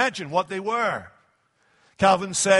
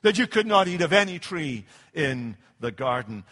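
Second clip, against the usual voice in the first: jeering feigned surprise. Acted. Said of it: "with his nose turned up as a kind of jeer".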